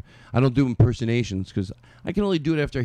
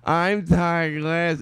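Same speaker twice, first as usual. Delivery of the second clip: Todd Glass catchphrase; 3 semitones higher, much slower than usual. Retold or imitated. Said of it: "I retweeted because".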